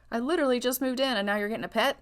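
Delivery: quick, laughing disbelief; fast mock outrage with a laugh; playful stunned husband; surprised. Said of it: "And he's like".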